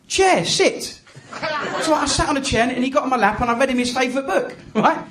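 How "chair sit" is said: curt imitated toddler command; lightly voiced child ordering a parent about; impatient toddler. Son ordering dad into chair, mildly impatient. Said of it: "he got impatient".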